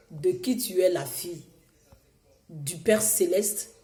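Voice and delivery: usual speaking voice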